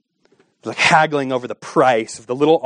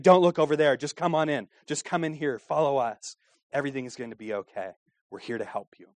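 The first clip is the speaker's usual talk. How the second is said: higher, then fading soft and quick; soothing coax; 4 semitones higher, 8 dB quieter than usual. Retold or imitated. Escort coaxing a woman away from the picture, softly. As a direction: lure her in gently, dropping to a hush.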